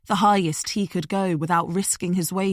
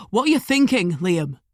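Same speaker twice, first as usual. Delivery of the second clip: raised, calling up a tree; called up; 4 dB louder than usual. A narrator's reading. Smith calling up to Liam in the tree. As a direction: call up to him, exasperated. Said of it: "Smith called".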